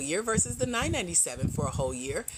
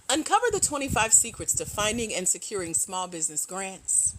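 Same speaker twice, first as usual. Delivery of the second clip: a light radio ad read; a hint of a voiceover actress reading an ad. Shown as a demonstration. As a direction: sell it like a radio spot. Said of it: "back to radio voice".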